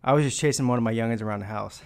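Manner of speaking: winded, catching breath as he talks. Real, not acted. Streamer winded from chasing the kids, out of breath. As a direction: talk while puffing from a chase. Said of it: "I'm trying to catch my breath".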